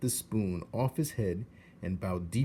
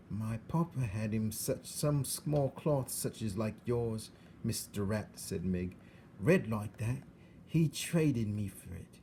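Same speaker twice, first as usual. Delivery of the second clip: put-on rough serving girl; 2 semitones higher than usual. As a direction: tell it plainly like a simple servant girl. Meg tells of her papa.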